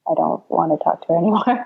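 nervous laugh. Real, not acted. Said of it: "nervous laughter here".

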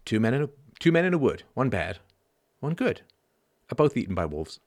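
deliberate verse, pausing before each verdict; poem recital. Shown as a demonstration. Speaker repeating own teenage poem for audience, measured recital. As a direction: recite the little poem line by line. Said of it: "So I wrote this poem".

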